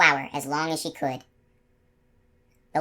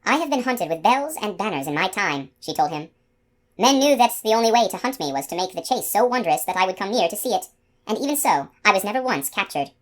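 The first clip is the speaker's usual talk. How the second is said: a lightly raised, proud unicorn voice; 4 semitones higher than usual. Acted. Unicorn telling the man of past hunts, lightly proud.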